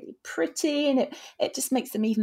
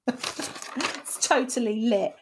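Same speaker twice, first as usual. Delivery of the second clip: put-on bubbly sorority girl. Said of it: "Oh, you're such an influencer".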